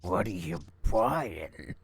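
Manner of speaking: put-on slow drawn-out merchant accent; Merchant voice impression. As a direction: drag it out like the shady merchant. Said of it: "Merchant voice in this is so much better".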